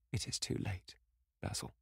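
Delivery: falter, voice nearly gone. Acted. Tearful young man answers the painter, faltering. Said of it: "he faltered".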